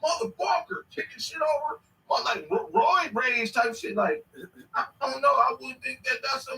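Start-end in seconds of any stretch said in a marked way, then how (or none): 0.0-1.8 mock yell. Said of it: "ever had no woman tell me".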